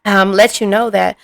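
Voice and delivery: talking while chewing gum; words around a wad of gum. Real, not acted. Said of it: "I got gum in my mouth".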